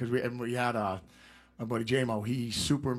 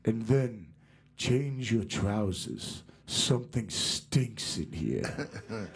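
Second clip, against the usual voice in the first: lightly voiced rock-singer impression, very slow; much slower than usual. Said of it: "And he goes".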